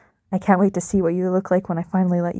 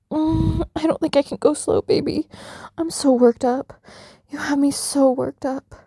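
worked up; 5 semitones higher than usual. Acted. Eager, rushing during sex.

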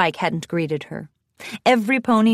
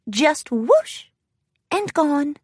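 high, shy little voice; lightly voiced meek pony, pitched up; small, high and wondering; timid Fluttershy; 5 semitones higher, slower than usual. A narrator's reading. Shy pony's line in story.

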